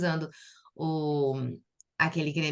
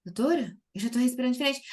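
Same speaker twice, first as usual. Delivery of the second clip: higher-pitched imitation of an amazed patient; childlike wonder; 6 semitones higher, much faster than usual. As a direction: mimic a delighted discovery, pitched up. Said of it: "é como criança quando descobre um".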